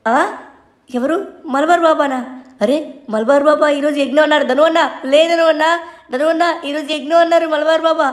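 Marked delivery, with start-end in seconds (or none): 1.5-8.1 put-on excited kid rousing his brother for the ritual; urgent wake-up call. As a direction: shake your sleeping brother awake with your voice.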